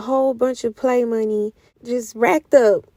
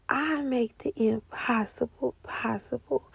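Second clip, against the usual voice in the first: soft voice of God; 9 dB quieter than usual. Retold or imitated. God's message retold.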